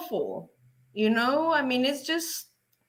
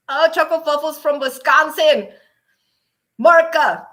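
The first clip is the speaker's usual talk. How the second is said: excited greeting; 3 semitones higher, 8 dB louder than usual. Real, not acted. Excited at viewer name.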